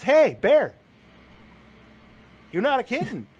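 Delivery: a bear nudging his buddy awake; mock bear voice. One bear telling another he's no kitten, called out. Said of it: "another bear comes in there and says".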